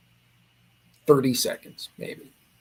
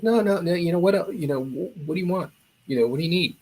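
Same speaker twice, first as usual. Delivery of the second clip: quick, higher-pitched salesman's patter; eager, insistent offer; 5 semitones higher, faster than usual. Retold or imitated. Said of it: "he got real serious".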